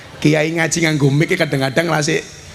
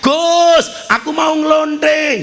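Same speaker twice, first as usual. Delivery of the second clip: high, loud, drawn-out calling; mock shout; 12 semitones higher, 3 dB louder, much slower than usual. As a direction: holler it out as a hammed-up announcement. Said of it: "teriak-teriak". (pura-pura teriak lantang bernada tinggi)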